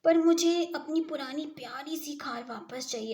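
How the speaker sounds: put-on loud pleading for the old skin; a child demanding his favourite thing back, loudly.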